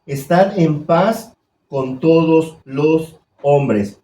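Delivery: slow, solemn reading of the verse; scripture reading. Acted. Preacher reading the verse aloud to the church, slow and solemn. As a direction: read the verse slowly and gravely. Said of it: "Ahí dice".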